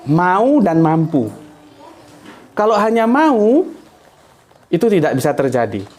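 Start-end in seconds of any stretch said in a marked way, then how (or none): 0.0-1.3 "Mau dan mampu" said slowly, each word apart; teacher stressing "Mau" and "mampu"; slow emphatic key words. Shown as a demonstration. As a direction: lay the two words down for the class. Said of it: "teaching two causes".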